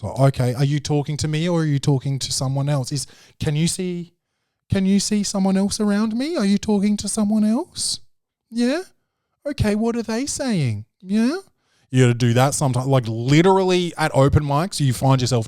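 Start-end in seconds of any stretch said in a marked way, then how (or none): 0.2-11.4 incredulous questioning. Retold or imitated. Confronting mumbling comic.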